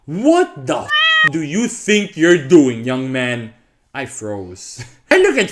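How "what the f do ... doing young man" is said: big man's challenge. Retold or imitated. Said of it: "a big-ass man come from behind and say".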